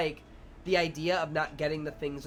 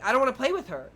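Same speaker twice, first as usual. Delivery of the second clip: higher, louder imitation of a kid; refusing children; 8 semitones higher, 7 dB louder, faster than usual. Preschoolers refusing to play with a girl, in high loud kid voice. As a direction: protest like a preschooler. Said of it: "They're like".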